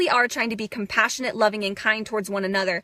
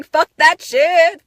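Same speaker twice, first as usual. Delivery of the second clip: higher, louder, slow shout; exultant shout; 6 semitones higher, 8 dB louder, slower than usual. Real, not acted. Releasing old pain: slow exultant shout. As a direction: belt it out in triumph.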